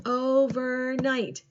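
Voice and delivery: "Overnight" slowly split into three beats; slow, separated syllables in "Overnight". Shown as a demonstration. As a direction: clap out "Overnight" as o, ver, night. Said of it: "Clap it out".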